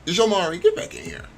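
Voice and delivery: high, loud call to come back. Acted. Mom calling her son back inside, loud. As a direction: yell him back into the room.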